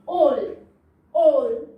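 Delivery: 올 소리를 또박또박 길게; drawn-out long O sound; sound demo. Shown as a demonstration. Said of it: "ओ double L".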